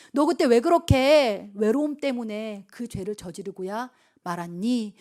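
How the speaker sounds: slow, drawn-out reproachful questions, building; God's questioning. Acted. God asking why you sinned then, slow and building. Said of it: "하나님 물으실 때".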